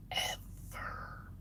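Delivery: breathy whispered "Ever." trailing off; a dead-serious whispered "Ever.". Shown as a demonstration. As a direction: whisper the final "Ever." as a grim afterthought.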